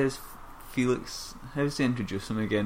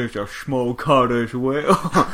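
louder, slowed camp voice with laughs; camp mock voice; 7 dB louder than usual. Cohost riffing on the gay joke, camp voice. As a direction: camp it up, teasing. Camp banter mocking the quote.

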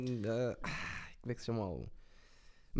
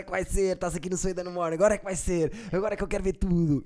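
hyped radio host egging on rappers, a bit higher; lightly voiced hype announcer; Sway hosting; 5 semitones higher, 3 dB louder than usual. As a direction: pump up the guest like a morning show host. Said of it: "Eu adoro a apresentação dele".

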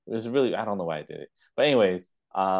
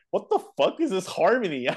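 mock outrage; 10 semitones higher than usual. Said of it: "my cousin's like".

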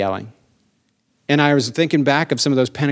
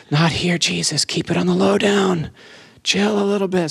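high, strained hammed-up pleading; mock embarrassed plea; 5 semitones higher than usual. Pleading with Jesus beside a stranger, high mock embarrassment. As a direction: urge him to cool it, pitched high.

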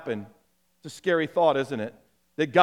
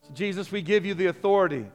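congregational prayer. Real, not acted.

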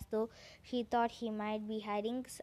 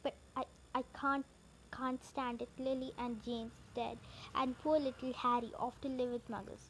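grieving giant; 2 semitones higher than usual. Acted. Hagrid weeping over Harry.

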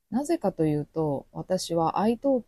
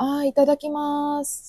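much higher naive acceptance; naive guest; 9 semitones higher than usual. Retold or imitated. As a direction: accept gladly, unaware. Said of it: "皆さんが". (何も知らず高い声で喜んで)

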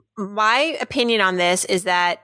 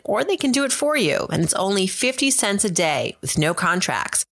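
polished radio ad read with lively intonation; scripted podcast commercial delivery. Acted. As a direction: read it like a sponsor spot, crisp emphasis on key phrases. Host reads a recorded ad.

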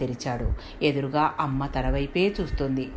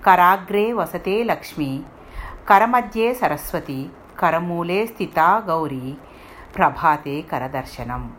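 recited prayer verse. A narrator's reading. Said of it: "మనసులోనే చదువుకుని".

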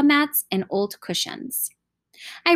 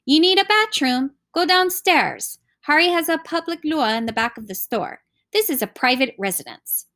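higher-pitched, testy dismissal; mildly irritated rebuff; 6 semitones higher than usual. A narrator's reading. Uncle turning away the children at his door, mildly irritated. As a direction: brush them off with a touch of annoyance.

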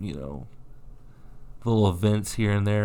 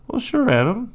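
sarcastic; 13 semitones higher, 4 dB louder than usual. Acted. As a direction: tease him with an exaggerated rising "sure". Teasing co-host about infotainment.

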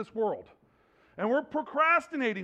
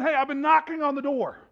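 loud urgent pleading; 5 semitones higher, 3 dB louder than usual. Retold or imitated.

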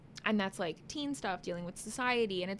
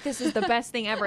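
gushing fan; 6 dB louder than usual. Retold or imitated. Retelling excited fan reaction.

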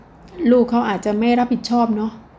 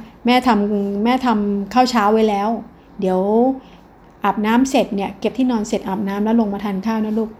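gentle mother. Shown as a demonstration. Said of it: "น้ำเสียงของพ่อแม่เนี่ยมาดี".

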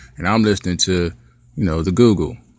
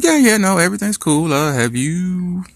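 much higher, breezy and hurried daughter voice; kid voice; 10 semitones higher than usual. Retold or imitated. Daughter on the phone to dad, high and falsely breezy. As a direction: play the teen daughter faking calm.

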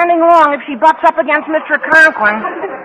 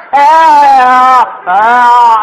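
tongue stuck out; 4 semitones lower, 6 dB louder than usual. Acted. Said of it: "Roll that up".

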